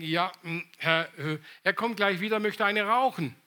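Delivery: imitating an awkward, hesitant excuse; embarrassed. Young man excusing himself for a smoke, mildly embarrassed. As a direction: stumble in with fillers, then get it out. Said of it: "meint dann ganz verlegen".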